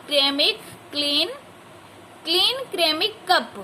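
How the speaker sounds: slow, careful read-aloud for a class; slow textbook reading to a class. Shown as a demonstration. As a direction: read each word clearly for pupils. Reads the story text aloud.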